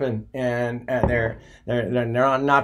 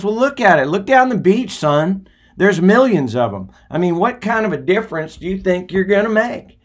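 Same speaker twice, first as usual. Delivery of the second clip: put-on higher, louder skeptical old man; old man scoffing; 6 semitones higher, 3 dB louder than usual. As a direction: scoff at the boy's effort, pitched up. Old man lectures boy in story.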